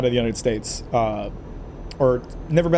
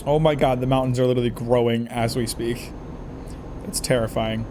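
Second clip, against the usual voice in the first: mouth full; 4 semitones lower than usual. Real, not acted. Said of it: "Sorry, I'm eating M and Ms right now".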